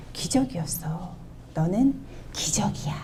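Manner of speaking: softly and tenderly, stress on 너는. Shown as a demonstration. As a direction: tell your child gently it is a miracle. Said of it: "이렇게 말씀하실 수 있으세요?".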